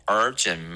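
Urgent slowly, first syllable a long "er"; curled-tongue R. Shown as a demonstration. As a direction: stretch and curl the opening of Urgent. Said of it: "R也要卷舌".

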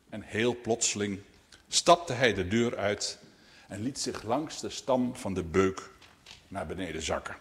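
measured storytelling, phrase by phrase; read-aloud tale opening; story narration. A narrator's reading. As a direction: tell it to children with pauses. Reads a story to children.

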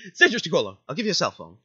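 joking, hammed-up caution; laughing mock warning. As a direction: quote it loudly through laughter. Player echoes the line as joke.

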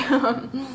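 short soft mock laugh; scornful laugh. Guest laughing at the host on the phone, mocking. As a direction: re-enact a brief derisive laugh. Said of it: "I just laugh and I'm like".

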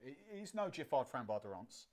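Giffard Framboise d'Arance said with a French accent. Shown as a demonstration. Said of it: "Get me in my French accent".

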